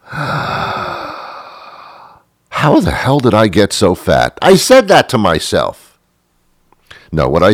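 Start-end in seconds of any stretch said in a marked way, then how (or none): 0.0-4.4 mock horror at himself; startled yelp into deadpan; sudden self-shock.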